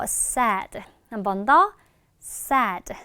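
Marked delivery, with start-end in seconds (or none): 2.2-2.9 "sad" with the last d barely touched; light final d. Shown as a demonstration. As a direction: model "sad", just hinting at the d. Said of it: "드는 살짝만".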